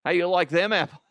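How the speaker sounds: attempted Boston accent slipping toward Australian. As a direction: have a poor go at Boston. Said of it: "what is something Boston?".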